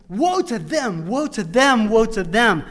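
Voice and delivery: loud woes. Acted. Preacher to congregation, booming woe to them. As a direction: thunder the woes like a prophet. Climactic repeat of Isaiah's woes.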